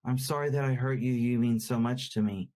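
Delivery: fast, the feeling missing from the voice; a husband's apology to his wife, rushed and without feeling. Shown as a demonstration. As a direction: rattle off the sorry without meaning behind it. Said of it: "But it's coming out".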